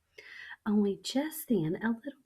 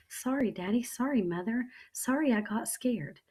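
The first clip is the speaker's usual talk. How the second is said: put-on teary child; 5 semitones higher, 3 dB louder than usual. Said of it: "my eyes got tears in them".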